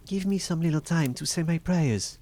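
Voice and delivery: high, mildly tearful pleading voice; tearful plea. A narrator's reading. Wife begging Bluebeard for time to pray, high tearful plea. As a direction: plead for mercy, pitched high. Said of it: "eyes all bathed in tears".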